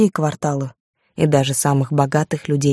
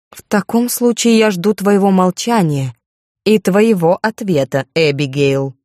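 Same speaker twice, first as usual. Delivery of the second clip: slow, measured reproof; drawn-out, understated aristocratic displeasure; mild stern rebuke; 3 semitones higher, slower than usual. Acted. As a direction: lightly play a lady demanding obedience. Viscountess rebukes servant, demands silence.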